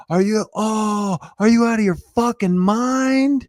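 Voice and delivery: imitated kid screaming from inside the house; kid yelling. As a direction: shout it like a foul-mouthed kid. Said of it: "we hear this kid yell".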